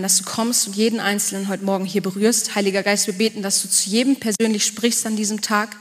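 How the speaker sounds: earnest spoken prayer to Jesus. Real, not acted. Pastor praying before his sermon, earnest prayer voice. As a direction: pray it sincerely, steady and devoted.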